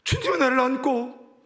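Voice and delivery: ordinary delivery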